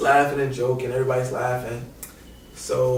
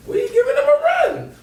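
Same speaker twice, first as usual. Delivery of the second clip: high, louder hyped storytelling; excited; 7 dB louder than usual. Real, not acted. Telling the Ohio State game, high excited. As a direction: pump up the comeback. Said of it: "sports story climax".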